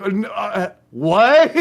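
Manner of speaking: high, loud, laughing what; stunned laughing squeak; laughing disbelief. Retold or imitated. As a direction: laugh it out incredulous. Reaction to mom's demand.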